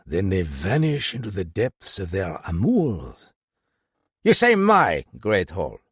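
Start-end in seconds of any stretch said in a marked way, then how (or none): 4.2-5.8 louder, curt snap at the inspector; sharp, indignant retort; snapped. Acted. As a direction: bite the words off in irritation. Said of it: "Galland snapped".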